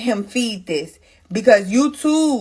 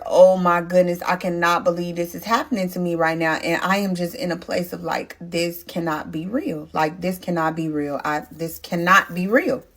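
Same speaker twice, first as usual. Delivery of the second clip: quietly distraught; 3 semitones lower than usual. Retold or imitated. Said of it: "I am distraught".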